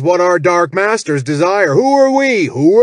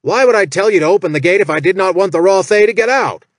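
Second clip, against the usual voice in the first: loud, higher, fast furious bellow; 5 semitones higher, 5 dB louder than usual. Acted. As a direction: roar it like an outraged boss. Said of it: "Jack bellowed".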